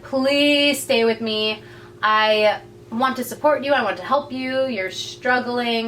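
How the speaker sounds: mildly pleading, with a drawn-out "please"; imitated begging. Colton begs her to stay, mildly acted pleading. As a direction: lightly act out a plea. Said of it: "begs her to stay".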